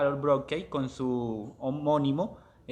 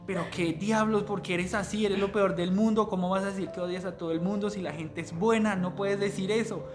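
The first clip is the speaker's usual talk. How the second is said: higher, mildly indignant protest; indignant outburst; 5 semitones higher than usual. Retold or imitated. Son protests his mother's bitterness, mild indignant outburst. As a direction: push back at her, half-acted outrage.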